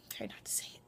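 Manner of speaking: barely audible note to self; whispered self-reminder. Real, not acted. Vlogger reminding self not to say um, whispering. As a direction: whisper it under your breath.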